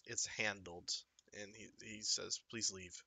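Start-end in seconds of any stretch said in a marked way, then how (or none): 0.1-0.9 whispered. A narrator's reading. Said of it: "he kinda whispers". 2.5-2.9 whispered. A narrator's reading. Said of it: "he kinda whispers".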